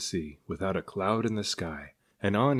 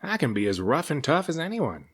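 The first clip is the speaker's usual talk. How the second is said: higher, huffy serpent; mock-tough grumble from a gentle monster; grumbling serpent; 7 semitones higher than usual. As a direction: protest with wounded pride. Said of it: "he grumbled".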